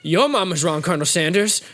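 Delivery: lightly acted comic comeback; Waterboy. Student retorting to professor, mildly indignant impression. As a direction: throw it back in a put-on simpleton voice. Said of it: "And he's like".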